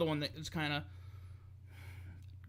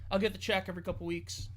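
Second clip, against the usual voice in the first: lightly acted couldn't-care-less shrug; imitated indifference. Host voicing a wrestler with no stake left, mock indifferent. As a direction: play a wrestler who has stopped caring, offhand. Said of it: "I don't think he cares".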